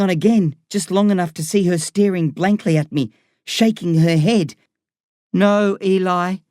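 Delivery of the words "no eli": slow, slightly raised, drawn-out no; gently refusing mother. A narrator's reading. Mum shaking her head at her son, slowly refusing.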